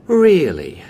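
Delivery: a loud, high, dry "Really?"; old usher teasing the distracted trainee; mock surprise. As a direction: feign surprise, a little sarcastic. Old usher reacts to the seats.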